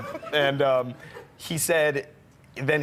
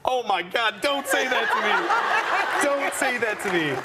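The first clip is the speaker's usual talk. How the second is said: flustered retold gush; 9 semitones higher than usual. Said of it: "I'm like".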